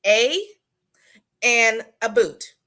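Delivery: exaggerated Canadian "a boot" for about; "a boot" drawn out loud like a mock Canadian; bad Canadian accent. Friend mocks a Canadian accent, loud and drawn out. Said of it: "my extreme bad a pers- impersonation of a Canadian accent".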